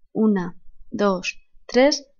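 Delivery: slow, spaced count ending on a rising "tres"; counting syllables. Shown as a demonstration. Teacher counting syllables of the verse aloud slowly. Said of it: "cuatro sílabas más allí".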